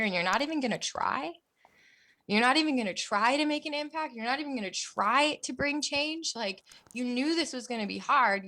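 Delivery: rally yourself, pressing each question harder; self pep talk. Retold or imitated. Beautiful conversation with myself.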